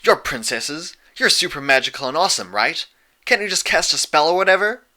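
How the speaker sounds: eager small dragon begging for a spell; lightly voiced pleading young dragon. A narrator's reading.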